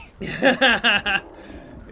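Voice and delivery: big amused laugh; loud laugh. Real, not acted. Laughing at teammate's complaint.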